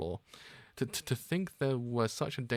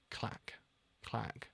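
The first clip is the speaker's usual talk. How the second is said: whispered sound effect; 11 dB quieter than usual. Acted. Sound effect read in manga.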